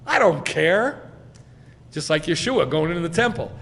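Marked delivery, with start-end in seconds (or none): 0.1-1.1 loud, higher, slow defiance; Pinchas. Acted. Pinchas answering the taunt about his daddy, acted defiance. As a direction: brush the insult off angrily. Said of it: "Pinchas felt".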